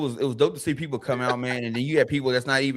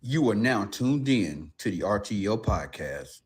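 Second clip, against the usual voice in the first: mock announcer; 5 semitones lower, 5 dB quieter, slower than usual.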